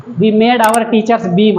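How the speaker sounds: slow, careful read-aloud for pupils. Shown as a demonstration. Teacher reading a poem line to children, slowly. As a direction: read each word out slowly and clearly. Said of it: "teacher reads sentence slowly".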